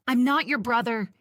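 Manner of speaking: angry shout at Barney. A narrator's reading. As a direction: yell it in his face. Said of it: "he yells".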